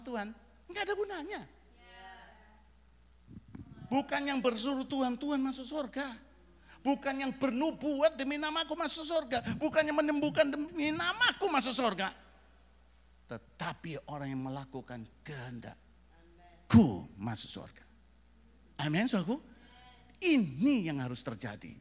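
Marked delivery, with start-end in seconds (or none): 3.9-12.1 high, insistent, rising in force; emphatic preaching. Real, not acted. Preacher listing who will not enter heaven, emphatic preaching. 13.3-17.8 low, slow and weighty; solemn answer. Real, not acted. Preacher revealing who does enter heaven, solemn answer.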